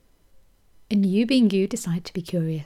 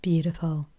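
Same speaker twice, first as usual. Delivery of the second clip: whispered praise; 3 semitones lower than usual. Acted. Soft affirmation after silence.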